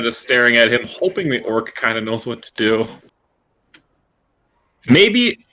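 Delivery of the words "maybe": slow mimic voice. Kenku speaking in mimicry.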